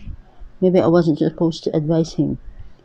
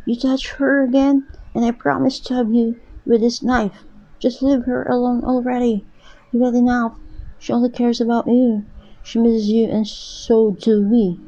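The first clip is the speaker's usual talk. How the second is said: put-on much higher, trembling boy's voice; scared boy; 6 semitones higher than usual. A narrator's reading. Young brother holding a knife, warning his father, high and scared.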